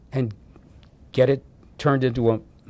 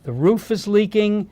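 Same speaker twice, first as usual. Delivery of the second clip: building, ending much higher and louder; rising to an eager high push; urging friend; 6 semitones higher, 3 dB louder than usual. Retold or imitated. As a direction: friend pushing him to take the money. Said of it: "he said".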